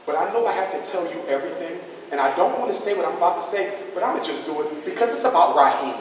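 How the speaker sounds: a hint of hushed gossiping teacher; lightly voiced teacher. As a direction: play the teacher confiding in the principal. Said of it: "She go right to the principal office".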